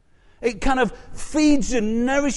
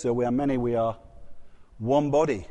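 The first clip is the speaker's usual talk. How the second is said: lower, measured liturgical recitation; intoned church response, lower; Anglican congregational response; 10 semitones lower, 5 dB quieter than usual. Shown as a demonstration. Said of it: "you say it in the Anglican service".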